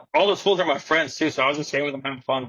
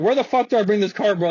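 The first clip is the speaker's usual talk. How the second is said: mildly heated retold demand, raised pitch; getting mad; 4 semitones higher than usual. Valet demands directions from unhelpful staff, getting mad. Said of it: "I started getting mad".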